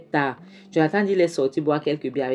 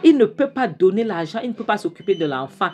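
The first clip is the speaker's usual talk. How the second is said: retold anger; 5 semitones higher, 4 dB louder than usual. Angry aunt retold.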